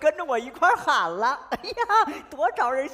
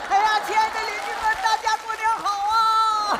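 higher, hearty new year call to the crowd; public greeting; 8 semitones higher than usual. Acted. Woman greeting her neighbors for new year, hearty call. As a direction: address the whole neighborhood festively.

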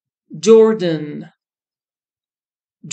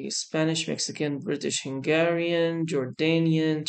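softer, skimming down a list; reading to oneself; 7 dB quieter than usual. Real, not acted. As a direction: read under your breath while searching. Scanning the list for Brazilian.

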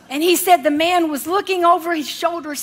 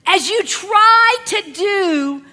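preaching shout. Real, not acted. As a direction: drive the line home with force.

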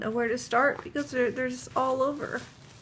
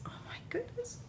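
high, soft awestruck gasp; hushed high oh my goodness and gasp; awed hush; 12 semitones higher, 12 dB quieter, faster than usual. Real, not acted. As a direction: breathe out amazement. Overwhelmed by gifts.

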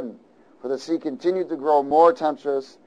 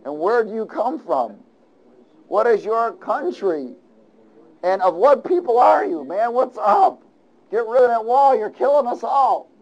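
higher, pleading sailors' voices; sailors pleading; 5 semitones higher than usual. Acted. Preacher voicing sailors pleading with Jonah. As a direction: act out the frightened sailors begging Jonah. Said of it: "And they said to him".

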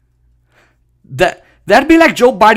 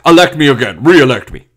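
Netanyahu; 4 semitones lower, 3 dB louder than usual. Retold or imitated. Mock plea in Netanyahu's voice.

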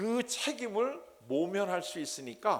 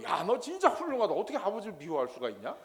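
mock praise; 2 semitones higher than usual. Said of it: "이걸 칭찬하는 게 아니고".

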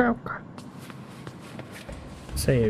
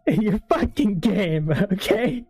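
mock scolding; 2 semitones higher than usual. Real, not acted. Scolding devs after scare.

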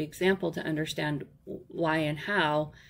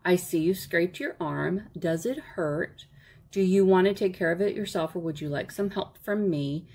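concerned and loving. Acted. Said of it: "you say in a concerned and loving tone".

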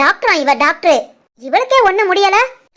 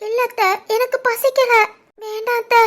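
tearful refusal; 3 semitones higher, 5 dB quieter than usual. Acted. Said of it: "நீ எதுக்குமா அழுகுற".

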